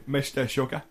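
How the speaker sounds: ordinary talk, nothing marked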